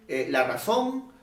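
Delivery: normal talking voice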